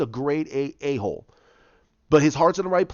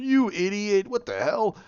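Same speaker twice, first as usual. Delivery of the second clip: higher-pitched laughing scoff; imitated incredulous, amused crowd; mock laughing jeer; 6 semitones higher than usual. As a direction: jeer as if at a ridiculous request. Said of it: "they're laughing, going".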